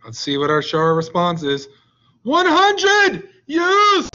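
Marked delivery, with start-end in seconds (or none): 2.2-4.1 loud, high, gleeful count shout. Acted. Teacher cheering the answer like the Count, loud and high. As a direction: cheer the number like the Count from Sesame Street. Count impression celebrating numbers.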